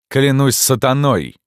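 high, loud, slow outraged oath; furious oath. A narrator's reading. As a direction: swear it in a rage. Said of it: "воскликнул капитан". (яростная клятва)

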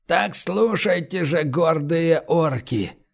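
slow, ringing call to the clan; solemn proclamation. Acted. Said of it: "громко провозгласил шаман торжественным голосом".

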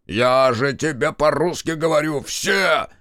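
high, insistent outburst; fed-up, high-pitched insistence; exasperated shout. A narrator's reading. Exasperated at being asked again.

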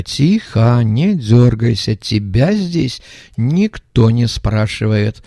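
slow, firm thug threat; rough threatening voice. Acted. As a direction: hold him down with words. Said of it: "грубый голос". (грубый угрожающий голос)

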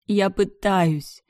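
crying out to her brother, strained and slow; crying shout. A narrator's reading. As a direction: shout it through tears. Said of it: "я кричала и плакала".

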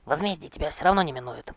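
loud, high vengeful yell. Acted. Quentin yelling a threat of revenge at the king. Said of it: "заорал Квентин".

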